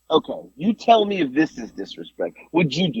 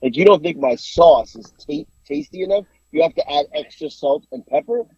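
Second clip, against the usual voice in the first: mock offended grandma. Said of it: "She was offended 'cause it was, like, her sauce".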